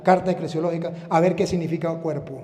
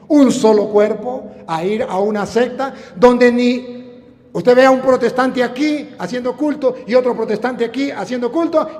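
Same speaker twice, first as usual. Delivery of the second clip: raised, insistent pulpit voice; fervent preaching; 6 semitones higher, 7 dB louder than usual. Acted. Preacher contrasting church and sects, fervent preaching. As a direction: press the argument on the congregation.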